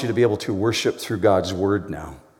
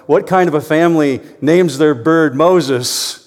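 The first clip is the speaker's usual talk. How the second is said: incredulous out loud; 5 semitones higher, 6 dB louder than usual. Acted. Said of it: "he said out loud".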